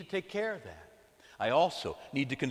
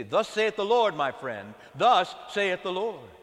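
slow, louder prophetic "Thus saith the Lord"; stern voice of the Lord; 3 semitones higher, 5 dB louder, slower than usual. Acted. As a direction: proclaim it like a prophet. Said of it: "he had to say".

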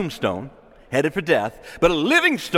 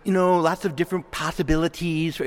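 mock casual shrug. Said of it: "We don't like to talk like this".

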